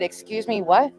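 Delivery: puzzled first reaction, mother on the phone; stunned disbelief. Retold or imitated. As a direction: caught off guard, not yet grasping it. Hearing daughter was run over.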